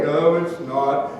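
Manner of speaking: slow, low droopy no; gloomy Eeyore. Acted. Friend as Eeyore refusing to cheer up, mopey. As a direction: drag it out like Eeyore. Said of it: "He was Eeyore".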